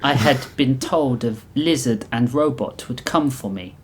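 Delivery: put-on thick, vaguely Russian accent. The Reap tells who would come for her, Russian accent. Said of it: "in her thick veil accent that was vaguely Russian".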